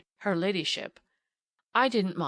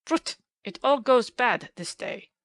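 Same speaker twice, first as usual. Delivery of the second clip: despairing; 3 semitones higher, 5 dB louder, slower than usual. A narrator's reading. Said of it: "the despairing exclamation".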